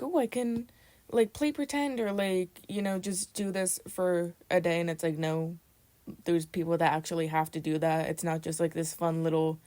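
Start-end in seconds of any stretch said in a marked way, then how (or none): 0.0-4.8 a hint of a breezy celebrity playing pretend; mock Charli. Mocking Charli at Walmart, lightly voiced carefree celebrity. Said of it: "treating it as, like".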